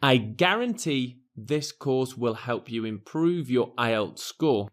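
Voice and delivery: "guarantee" stressed, rest soft; quiet line with "guarantee" pushed. Shown as a demonstration. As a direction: lean on "guarantee". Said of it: "I want to emphasize that I guarantee".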